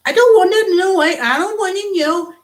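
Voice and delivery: a touch of an imitated Indian accent; mock Indian accent. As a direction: parody an Indian trainer's accent. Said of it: "they sound like that".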